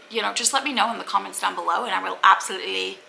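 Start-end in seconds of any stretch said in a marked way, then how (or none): 2.2-3.0 low, quick ABSOLUTELY; oddly said. Real, not acted. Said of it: "why did I say it like that?".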